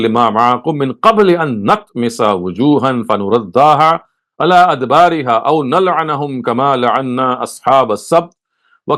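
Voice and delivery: measured Arabic scripture recitation; Quran recitation. Acted. Teacher quoting the Quran to listeners, formal recitation.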